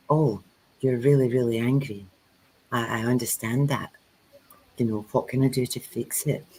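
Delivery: calm and quiet. Shown as a demonstration. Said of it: "the quieter you should get".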